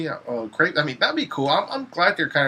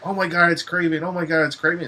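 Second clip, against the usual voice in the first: higher, mock-excited fan voice; imitated fan excitement; 4 semitones higher than usual. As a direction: gush like an overexcited fan. Imitating excited fans' reaction.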